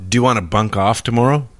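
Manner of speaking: asked through a laugh. Real, not acted. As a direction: giggle through the question. Example sentence, laughing.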